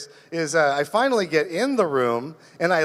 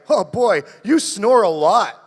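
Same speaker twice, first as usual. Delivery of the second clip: roommate voice; 3 semitones higher, 5 dB louder, slower than usual. Retold or imitated. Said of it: "And he's like".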